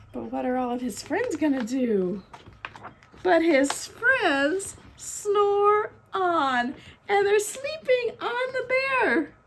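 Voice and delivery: lively storybook narration with swooping pitch; drawn-out, playful story voice; reading to children. A narrator's reading. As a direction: read it like a picture book to little ones. Reading picture book aloud.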